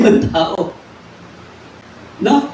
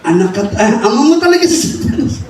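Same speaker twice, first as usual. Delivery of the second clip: harsh rebuke; faster than usual. Shown as a demonstration. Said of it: "Pag paulit-ulit".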